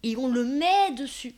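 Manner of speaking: unvoiced, slow dreamy whisper. Dreaming of her living room on stage, slow whisper. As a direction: breathe it like a secret wish.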